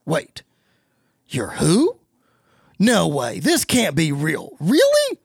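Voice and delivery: surprised. Retold or imitated. Miz shocked on phone.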